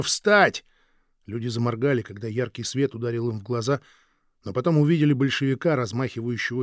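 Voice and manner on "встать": a sudden rousing yell; shouted order. Acted. Bolshevik guard waking prisoners, shouting. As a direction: bark it loud and high. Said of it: "от крика".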